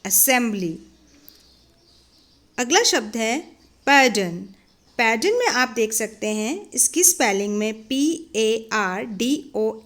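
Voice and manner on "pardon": pardon, its r left unspoken; silent r in pardon. Shown as a demonstration. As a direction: say pardon with the r dropped. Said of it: "र जो है, आर जो है, वो silent है". (pardon में र silent)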